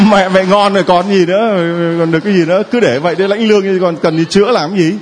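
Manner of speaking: high, laughing banter; teasing laugh. Real, not acted. Priest teasing the woman about her pension, laughing. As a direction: tease her playfully.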